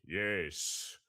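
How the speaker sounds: loud, swooping villain voice with a big cackle after; grandly drawn-out cartoon schemer; Plankton. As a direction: boom it out slowly with gleeful relish. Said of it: "Plankton would probably be the other one".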